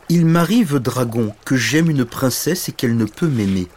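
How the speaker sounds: lightly voiced lovelorn little knight; a touch of lament; unhappy little knight. Tearful little knight answers dragon.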